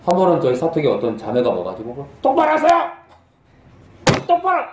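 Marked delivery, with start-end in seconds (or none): 2.2-4.6 very high-pitched mock yell; high, strained imitation of a furious outburst; angry table-banging outburst. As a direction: imitate an irate accuser in a squealed, high voice. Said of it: "저 식탁을 치면서".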